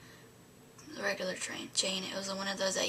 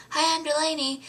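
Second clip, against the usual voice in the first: high, loud eager hello; excited greeting; 7 semitones higher, 5 dB louder than usual. Retold or imitated. Fan greeting her idol, excited and high. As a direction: gush your name at him.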